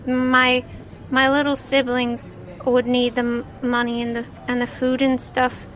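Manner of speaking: put-on sad child. Child tells of his poverty.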